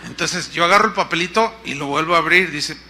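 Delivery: normal talking voice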